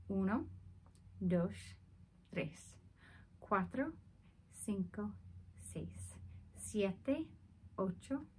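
whispered counting. Shown as a demonstration. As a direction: breathe the numbers out softly.

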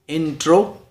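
"इंट्रो" as two beats, IN, TRO; split into syllables. Shown as a demonstration. Teacher counts first foot of introduction, syllables sounded out. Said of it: "दो syllables".

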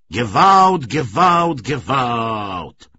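anguished calling into the sky; torn, desperate cry. A narrator's reading. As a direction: cry out at full voice, each call stretched and falling. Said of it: "wzywał wielkim, rozdartym głosem".

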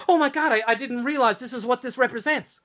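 mildly panicked retold apology; imitated apologetic kid. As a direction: play a kid scared of having offended. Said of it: "so afraid of offending anybody".

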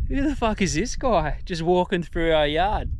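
a lightly voiced local yelling about a stranger in the yard; half-hearted mock outrage from an imagined Albanian; pretend angry local. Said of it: "Obviously not in the Aussie accent, ... in Albanian".

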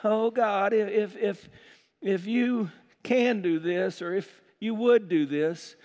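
halting, hesitant mock plea; faithless prayer. Preacher imitating someone praying without faith, halting and unsure. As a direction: stumble uncertainly through a timid request. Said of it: "when you don't have faith".

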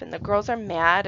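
ordinary delivery

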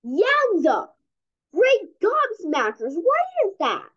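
over-the-top wonder; mock amazement. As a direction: gasp it out like a cartoon scientist. Hamster sees mold.

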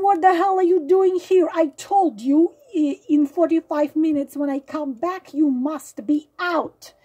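wife catching him home, demanding why he's still there; retold angry demand. Wife confronts cheating partner.

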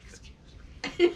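slow, exaggerated whispered apology; mock whisper. Teasing co-host about the burp apology, mock whisper. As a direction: mimic it in a drawn-out whisper. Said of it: "But you whispered it".

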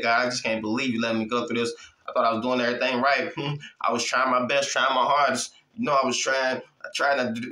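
lightly acted, low-pitched complaint; mock grumbling. A believer complaining to God about hardship, mildly grumbling. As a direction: imitate a believer grumbling, voice dropped a little. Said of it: "Don't grumble. Get mad".

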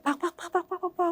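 rapid-fire "pak-pak-pak" knocks; imitated knocking. Telling the host about knocks round the house, imitated knocking. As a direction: mimic insistent banging without shouting. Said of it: "เสียงดังมากแบบ".

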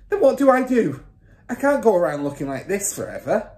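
high, loud despairing cry; panicked father. A narrator's reading. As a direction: plead helplessly for a fix. Father panics over his hair.

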